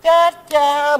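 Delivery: mock dismay. Comic repeated excuse.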